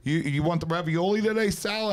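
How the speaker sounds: eager waiter. Retold or imitated. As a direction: offer the ravioli like a keen waiter. Waiter offering pasta to immigrants.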